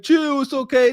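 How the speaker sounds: hammed-up reassuring man; playing the man calming his upset partner; mock soothing boyfriend. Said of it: "he gonna be like".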